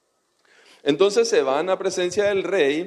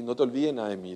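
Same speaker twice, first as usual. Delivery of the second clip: friendly plea; 4 semitones lower, 6 dB quieter, much faster than usual. Retold or imitated. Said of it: "así en buena onda".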